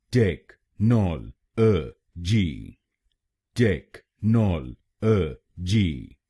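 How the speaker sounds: टेक नॉल अ जी said slowly, one syllable at a time. Shown as a demonstration. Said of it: "तो बनेगा".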